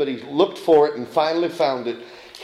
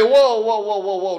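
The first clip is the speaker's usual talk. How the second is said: mock halting; 5 semitones higher than usual. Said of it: "Does he say".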